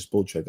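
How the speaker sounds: "Spotrac" with first vowel as in "bowl"; long O pronunciation. Shown as a demonstration. Host settling on the common version, "Spotrac" said as SPOHL-track. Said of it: "most people pronounce it".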